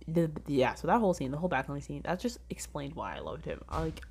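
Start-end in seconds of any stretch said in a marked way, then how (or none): 2.1-3.6 soft whisper. Real, not acted. Confessing love for character.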